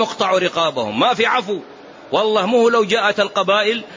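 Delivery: vehement retelling of an unforgiving father; insistent, pitch jumping on the commands; adamant refusal. Retold or imitated. Murdered man's father rejecting the crowd's pleas, adamant.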